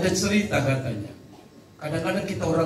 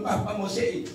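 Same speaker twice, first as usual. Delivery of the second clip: soft, faint plea with a small rise on "seiko"; a frail father after a stroke barely asking; weak sick parent; 6 dB quieter than usual. Retold or imitated. Preacher voicing a stroke-stricken father, soft and faint. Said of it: "atau su stroke baru bilang".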